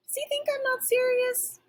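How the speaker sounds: high, incredulous squeak; can't believe the nerve of him; offended puppy question; indignant disbelief. A narrator's reading. Dog affronted by squirrel.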